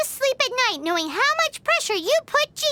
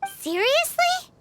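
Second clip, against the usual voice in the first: higher, slow disbelieving question; incredulous; 7 semitones higher, slower than usual. Acted. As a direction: stretch it out in disbelief. Paimon can't believe the request.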